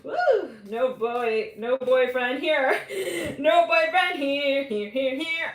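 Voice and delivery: high, loud, slow singsong chant; giddy excitement. Real, not acted. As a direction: sing it out gleefully.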